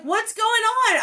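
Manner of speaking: high, loud startled cry; alarmed question. Retold or imitated. Friend asking what is happening, high alarmed cry. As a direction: shriek it in confusion.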